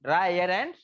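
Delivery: slow question then answer; slow classroom recap. Shown as a demonstration. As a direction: check they wrote it down. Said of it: "ये थोड़ा सा लिख लेना".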